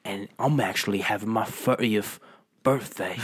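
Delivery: put-on Cockney, th said as f; British tough guy accent; Jason Statham. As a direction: swallow the t's like a Londoner. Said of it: "so many F's in that".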